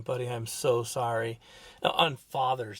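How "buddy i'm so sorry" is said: slow, lower, tender regret; retold apology. Father apologizing to his young son, tender. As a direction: say sorry gently, taking time. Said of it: "apologizing and saying".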